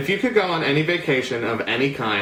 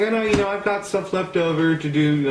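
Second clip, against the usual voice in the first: put-on UK accent; 5 semitones higher than usual. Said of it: "a U K accent".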